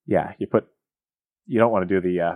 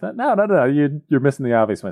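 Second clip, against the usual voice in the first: mock ghost; 5 semitones higher than usual. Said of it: "And the ghost's like".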